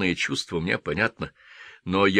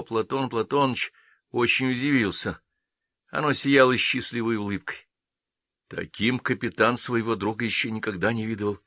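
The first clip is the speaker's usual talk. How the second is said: ordinary delivery, nothing marked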